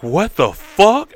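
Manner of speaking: high, slow, stunned; shocked confusion. Acted. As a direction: drag it out in disbelief. Woman wakes resurrected, acted.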